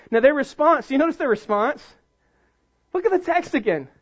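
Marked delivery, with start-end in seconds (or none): none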